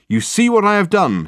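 high, loud triumphant question. Acted. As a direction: crow it out in triumph. Dirk triumphant to the ceiling.

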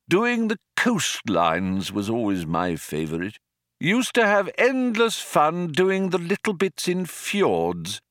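reminiscing, climbing high with delight; old man warming to his memories; wistful old man. A narrator's reading. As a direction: recall a favourite job fondly.

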